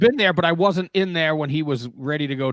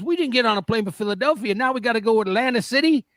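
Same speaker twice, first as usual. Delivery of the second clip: imitating a teammate; 7 semitones higher, faster than usual. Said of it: "He goes".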